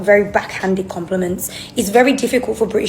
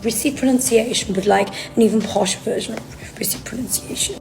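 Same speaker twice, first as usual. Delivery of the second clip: put-on posh British accent; 2 semitones higher than usual. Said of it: "If you speak, like, almost like the Queen".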